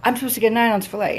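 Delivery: high, fast whiny complaint; hammed-up outraged customer; mock freaking out. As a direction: whine it like a spoiled customer. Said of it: "he's freaking the fuck out".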